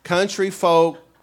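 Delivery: ordinary talk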